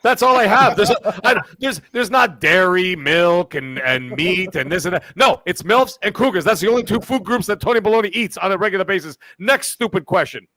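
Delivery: a cocky know-it-all character, only slightly put on; Tony Baloney character. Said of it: "I haven't done Tony Baloney".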